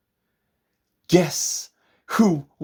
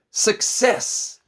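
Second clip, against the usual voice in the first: breathy whispered cheer; whispered triumph; 12 semitones higher than usual. A narrator's reading. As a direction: whisper it with glee.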